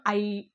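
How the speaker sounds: "ఐ" held long; long vowel. Shown as a demonstration. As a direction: draw "ఐ" out slightly. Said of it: "దీర్ఘాలు తీస్తాం అనమాట". ("ఐ" దీర్ఘంగా)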